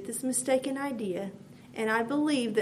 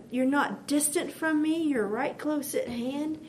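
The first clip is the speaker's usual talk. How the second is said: prayer. Retold or imitated. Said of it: "you begin to say these things to the Lord".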